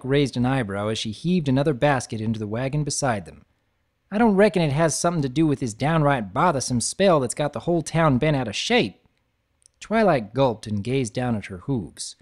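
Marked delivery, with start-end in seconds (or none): 4.1-9.0 lightly voiced country mare, quick and knowing; folksy friend gently prodding; a hint of a Southern farm pony; Applejack, a touch faster.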